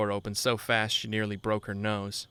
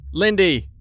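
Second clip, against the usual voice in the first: much higher, very loud shout; frantic shout; 9 semitones higher, 13 dB louder than usual. A narrator's reading. Friend shouting into the house for Lindy, frantic. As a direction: yell her name in alarm. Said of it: "I called into the house".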